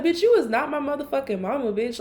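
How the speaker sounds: indignant comeback to a nagging friend; high exasperated retort. Retold or imitated. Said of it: "that's literally what I texted her".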